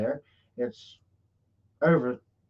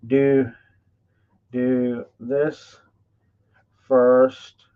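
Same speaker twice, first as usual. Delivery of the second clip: talking around a pen in the mouth; pen in teeth; 2 semitones lower, 4 dB louder, much slower than usual. Real, not acted. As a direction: say it with a pen clenched in your teeth. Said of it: "Got a pen in my mouth".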